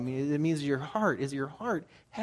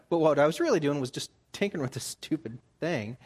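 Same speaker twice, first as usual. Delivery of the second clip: ordinary talk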